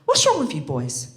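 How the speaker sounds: high, loud outraged rant; ranting teacher. Retold or imitated. Feminist teacher scolding the boys, outraged shouting. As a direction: let the fury climb line by line. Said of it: "she goes".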